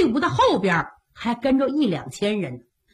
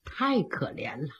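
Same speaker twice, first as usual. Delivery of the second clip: ordinary delivery, nothing marked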